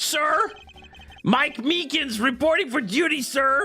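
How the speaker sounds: high-pitched, shrill yelling character voice. Voicing a game character after saying he must yell: high-pitched yelling character voice. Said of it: "I need to yell and being high pitch".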